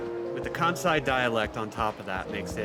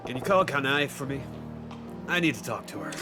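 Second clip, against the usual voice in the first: Majima voice. Acted. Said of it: "kind of jaw set forward a little bit".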